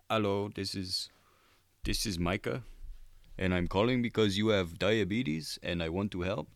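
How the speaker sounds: a light take on a canned caller; telemarketer voice. Retold or imitated. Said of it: "But he'll say his thing".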